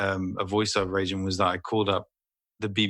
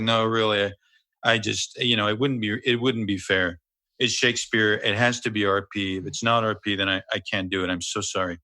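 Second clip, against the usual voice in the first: lightly voiced American star impression; a hint of a measured, regretful American actor; Kevin Spacey. Prank caller as the star declining Shakespeare, mildly impersonating. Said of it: "so that was my Kevin Spacey".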